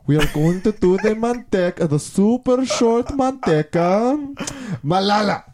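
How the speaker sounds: high-pitched college teacher take-off; put-on high voice, mocking a teacher; guitar teacher impression. Imitating guitar teacher in class, high-pitched. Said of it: "a certain guitar teacher".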